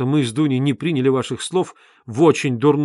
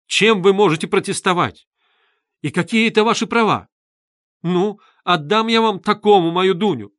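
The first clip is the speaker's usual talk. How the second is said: heated; 4 semitones higher, 5 dB louder than usual. A narrator's reading. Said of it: "горячо вступилась".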